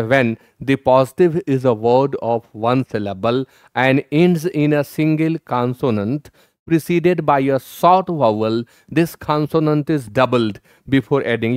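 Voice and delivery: reading the rule out slowly, word by word. Shown as a demonstration. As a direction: dictate the textbook rule slowly. Reads English grammar rule slowly. (नियम धीरे-धीरे पढ़ना)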